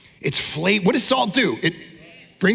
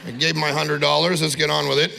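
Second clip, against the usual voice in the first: lower, bored grumble; impatient wedding guest; 5 semitones lower than usual. Retold or imitated. Bored white wedding guest grumbling to wrap up. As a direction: hurry the wedding along. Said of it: "It's like".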